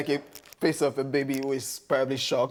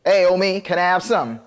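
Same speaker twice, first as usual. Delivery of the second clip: loud American homie voice; punchy mock-American street greeting; American accent; 6 dB louder than usual. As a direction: put on a casual US accent. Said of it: "The accent".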